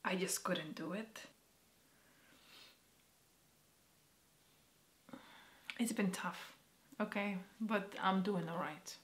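quiet, holding back real emotion; real, subdued upset; emotional. Real, not acted. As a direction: say it softly, close to tears. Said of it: "I'm being emotional right now".

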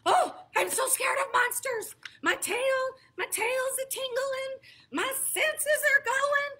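high, loud fuzzy monster voice; high-pitched puppet monster squealing with fright; Grover voice. Acted. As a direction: play a frightened furry monster. Grover voiced in a picture book.

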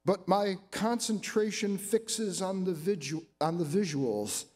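measured, emphatic poem recital; deliberate phrasing, line by line; poetry reading. Acted. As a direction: read your poem to an audience, pausing between phrases. Reads own poem aloud.

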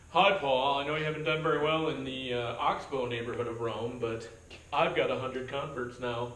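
loud, gloating fake-friendly greeting; smug mock letter. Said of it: "Can you imagine that if Paul got that letter?".

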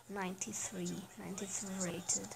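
unvoiced whisper to himself. Real, not acted. Player reading a card rating to himself, whispered. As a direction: breathe the rating out under your breath.

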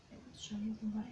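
fast hushed whisper of a relayed message; quick whisper. Shown as a demonstration. Reader relaying the message she hears, whispered fast. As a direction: whisper it quickly as if repeating what you heard. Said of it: "is what I'm being told".

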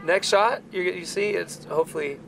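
losing his voice, hoarse; rough, worn-out voice with little left. Real, not acted. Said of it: "As you can hear, I have no voice".

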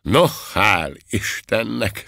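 slow, satisfied exclamation. A narrator's reading. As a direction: say it with pleased relief. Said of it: "szólalt meg elégedetten".

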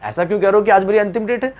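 hammed-up scared protest; mock alarm. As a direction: act out a frightened listener demanding to know why. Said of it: "तुमने तो सुनकर डर जाना है".

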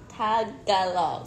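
Tagalog slow and separated; drawn-out syllables in Tagalog, correcting someone; correcting pronunciation. Shown as a demonstration. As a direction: sound out Tagalog for a learner. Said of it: "No, Tag".

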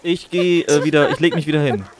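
high, loud flustered shouting; excited shout. Real, not acted. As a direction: yell while panicking. Downed in game, shouting.

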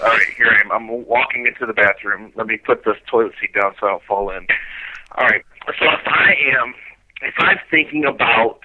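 echoing in a small bathroom; talking in a tiled bathroom. Real, not acted. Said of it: "I hear the echo too".

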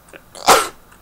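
sharp real sneeze; sneezing. Real, not acted. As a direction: let out a sneeze. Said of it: "Sorry, I'm gonna sneeze again".

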